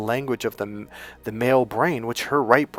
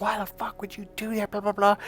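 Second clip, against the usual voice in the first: mock furious yell, pitched up high; hammed-up angry yelling at the ex-girlfriend; retold yelling; 10 semitones higher than usual. Retelling how he yelled at his ex-girlfriend, mock furious yell. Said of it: "yelling and screaming at her".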